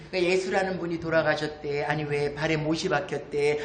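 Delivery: low standard Korean retelling; standard Korean version. Shown as a demonstration. Speaker translating the grandmothers' chat, in standard Korean. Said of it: "표준 말로 하면".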